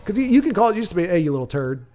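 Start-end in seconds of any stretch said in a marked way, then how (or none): 1.1-1.9 affectionate tease. Shown as a demonstration. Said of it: "that's how it's said".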